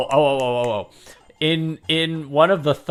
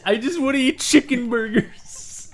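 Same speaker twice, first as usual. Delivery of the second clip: higher, softer put-on whine; imitating the film line, higher and softer; whiny film character voice; 7 semitones higher, 5 dB quieter than usual. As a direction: mimic the actor's limp delivery. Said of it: "it's just the way it's, the delivery".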